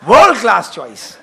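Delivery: very slow, drawn-out mock rapture with a laugh; gushing admiration. Shown as a demonstration. Husband praising wife's new curtains, slow hammed-up gushing. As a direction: overdo the praise to please her. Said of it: "વધારે આનંદ લેવો હોય ને કરાવવો હોય તો".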